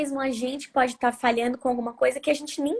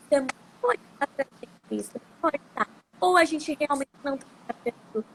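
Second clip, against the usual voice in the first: choppy breaking-up call audio; bluetooth headset mic. Real, not acted. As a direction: voice cutting out on a bad line. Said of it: "a tua voz tá cortando muito".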